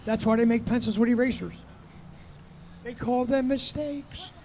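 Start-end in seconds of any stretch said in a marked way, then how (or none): 2.8-4.3 slow deliberate. Real, not acted. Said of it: "why are you talking like that?".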